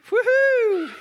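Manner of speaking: high joyful whoop; ecstatic whoop. Real, not acted. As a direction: whoop it out in joy. Ecstatic shout in meeting.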